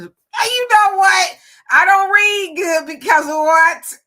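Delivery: loud, high, drawn-out mock indignation; mock outburst. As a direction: break off and call it out loudly. Mock outburst at own misreading.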